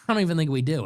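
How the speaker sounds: said again through a laugh; amused, laughing repeat. Real, not acted. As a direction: chuckle the repeat at yourself. Repeats line, then laughs.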